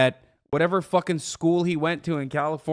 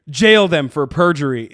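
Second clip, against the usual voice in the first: laughing through the words; 8 dB louder than usual. Real, not acted. Streamer laughing at a guest's line, laughing. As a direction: repeat it while cracking up.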